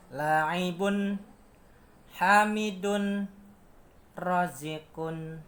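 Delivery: three words on a flat, rising, falling tune; flat, rise, fall tune. Shown as a demonstration. Teacher shows the three-note pattern, slow and melodic. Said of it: "Datar, naik, turun".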